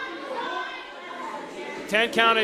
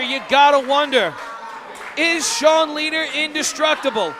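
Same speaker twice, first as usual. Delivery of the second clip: wrestling commentator; 4 semitones higher than usual. Real, not acted. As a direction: draw out the drama. Dramatic commentary after kick-out.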